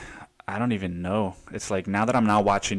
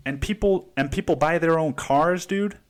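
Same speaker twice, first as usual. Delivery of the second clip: higher, lightly worked-up rant; a touch excited; 6 semitones higher than usual. Real, not acted. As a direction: still buzzing about the Tesla. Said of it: "I'm getting all excited about this".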